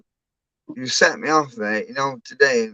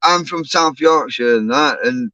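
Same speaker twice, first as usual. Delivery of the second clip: South Yorkshire accent; 2 semitones higher than usual. Shown as a demonstration. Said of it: "if I talk my proper South Yorkshire".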